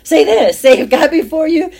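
rising preacher's exhortation; emphatic call. Real, not acted. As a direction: urge them to say it, ringing out. Preacher urging the listeners.

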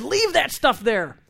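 stern, deliberate instruction; firm command. Retold or imitated. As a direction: lay down the law. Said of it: "I said".

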